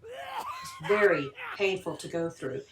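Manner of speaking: measured scripted voice-over with lively pitch swings; read-out intro, key words lifted; documentary narration. A narrator's reading. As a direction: narrate it like a haunted-history documentary.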